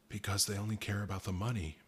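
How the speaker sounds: lightly choked, hushed; a tight, strangled near-whisper. Acted. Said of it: "his voice a choked whisper".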